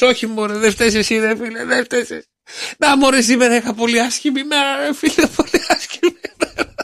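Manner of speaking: high, whiny mock crying; hammed-up tearful complaint; crying skinny guy. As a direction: sob out the bad day in a comic whine. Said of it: "Και συνεχίζει και κλαίει".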